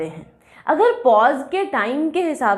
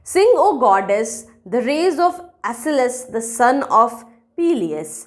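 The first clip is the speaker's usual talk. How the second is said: verse reading; much slower than usual. Shown as a demonstration. Reads example verse aloud with pauses.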